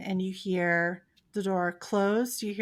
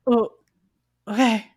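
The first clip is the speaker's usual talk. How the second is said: dim dog voice; 2 semitones higher, 11 dB louder than usual. Acted. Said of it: "the big dog is not the brightest dog, and he goes".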